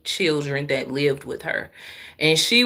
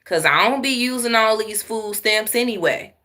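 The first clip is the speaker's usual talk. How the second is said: retold "I don't care" attitude; carefree classmate; 4 semitones higher than usual. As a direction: imitate a generous friend waving it off. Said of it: "She was like".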